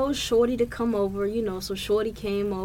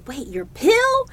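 mildly startled question, raised and louder; baffled reaction; 7 semitones higher, 6 dB louder, slower than usual. Retold or imitated. Retelling a confused reply to the partner, mock bafflement. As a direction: ask it in drawn-out mock confusion.

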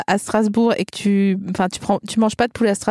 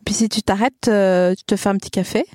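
put-on Vosges accent. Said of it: "Allez, fais-moi les Vosges".

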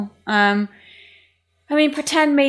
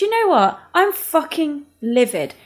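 pretend angry confession; 4 semitones higher than usual. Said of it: "I had a chat with Ryan's mum and I said".

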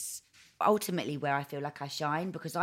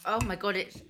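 savoring delicious food; 3 semitones higher than usual. Real, not acted.

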